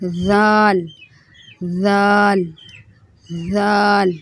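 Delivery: زال said softly, tongue tip at the upper teeth; a gentle زال; soft letter demo. Shown as a demonstration. Teacher modelling soft زال. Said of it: "دانت ہیں اس سے زبان کی نوک ٹچ کرے گی".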